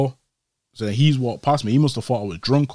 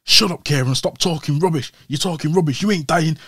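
angry; 4 semitones higher than usual. Retold or imitated. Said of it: "My man flipped on me".

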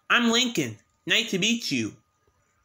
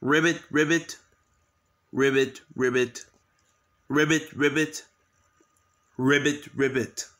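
croak like a frog; 3 semitones lower than usual. Pretend. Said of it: "croak like a frog".

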